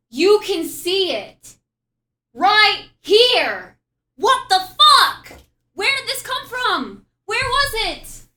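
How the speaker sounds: loud, high disbelieving shouts; excited shouting. Real, not acted. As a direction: yell in stunned disbelief. Shock at finding it.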